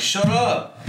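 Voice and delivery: put-on high-pitched retort to a whining baby; mock exasperation, pitched well up; mock pissed-off. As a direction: bicker back, playfully annoyed. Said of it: "I'll get pissed".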